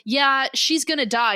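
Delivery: telling someone off, slowly and pointedly; scolding doctor. Retold or imitated. Doctor giving Brocklehurst what for, scolding. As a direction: lay the blame on with slow emphasis. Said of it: "giving him what for".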